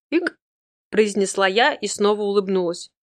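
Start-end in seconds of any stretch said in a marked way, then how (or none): 0.1-0.4 hiccup. Acted. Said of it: "Я пьяно икнула".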